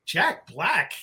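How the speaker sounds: mock-incredulous question; incredulous retold reaction. Illustrator reacting to the casting news, incredulous. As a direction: question the name in disbelief.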